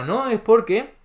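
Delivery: high, mocking take on the rival's excuse; sarcastic imitation of liberal economists; mocking opponent. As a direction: parrot the other side's argument. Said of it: "que nadie me venga a decir".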